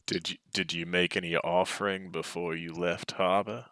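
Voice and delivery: put-on light Boston accent. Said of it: "now I'm doing a fucking Boston accent".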